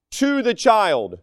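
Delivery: slow emphasis on "to", falling away at the end; stress on TO. Real, not acted. Preacher making a point on discipline, slow stress on "to". Contrast not done to, but for.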